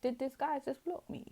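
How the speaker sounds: outraged ex. Retold or imitated. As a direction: play the offended ex who has just been blocked, climbing up. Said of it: "they're like".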